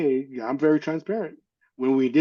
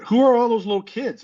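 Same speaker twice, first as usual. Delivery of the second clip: surprised question; 9 semitones higher, 6 dB louder than usual. Retold or imitated. Retold surprised question to mother.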